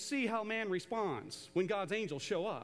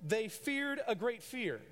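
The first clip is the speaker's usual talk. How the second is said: slowly, each word weighed; slow deliberate reading; slow literal rendering; slower than usual. Shown as a demonstration. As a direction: spell out the literal Greek slowly. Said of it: "you could render it like this".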